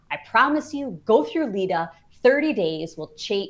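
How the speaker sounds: loud, eager sales pitch; enthusiastic pitch. Retold or imitated. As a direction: sell it with big excitement. Excited pitch to join lida.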